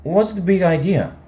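high-pitched, affronted phone voice; Sally. A narrator's reading. Girl demands an explanation from late caller, high voice. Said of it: "It was old Sally".

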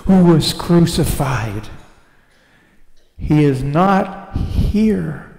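measured, solemn Bible reading; scripture reading. Acted. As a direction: read the passage with weight. Reads Matthew 28 aloud.

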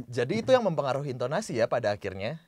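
light lift on "itu" near the start; intonasi pertama. Shown as a demonstration. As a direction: lean gently on "Jadi itu". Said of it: "Itu satu intonasi itu". (tekankan ringan "Jadi itu" di awal)

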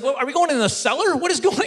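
high-pitched mock alarm, rising on the last question; a touch of hammed-up panic. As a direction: nervously question where this is heading. Acts out alarm at the cellar.

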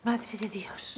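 whispered oath. Acted. Maid alarmed at thirteen guests.

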